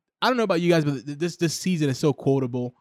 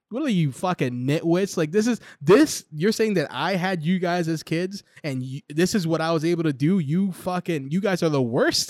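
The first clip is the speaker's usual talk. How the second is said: higher-pitched mock outrage at the kids; imitated indignant scolding, rising at the end; acted-out berating; 4 semitones higher than usual. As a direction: play an exasperated dad tearing into his children. Acting out the dad berating his kids.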